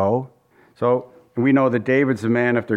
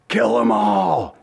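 1 retold yell; 5 semitones lower, slower than usual. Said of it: "Michael yells out".

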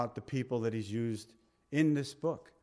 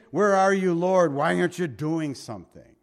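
loud pleading call, Where are you, Lord; a preacher voicing a believer's loud complaint; anguished cry to God; 3 semitones higher, 7 dB louder than usual. Anguished prayer quoted.

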